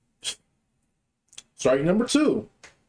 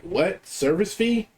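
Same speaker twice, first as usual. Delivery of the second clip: retelling his shock at a hidden charge; incredulous what; 5 semitones higher, much slower than usual. Retold or imitated. Friend scammed by a fee, higher incredulous question. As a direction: voice jumps up in disbelief.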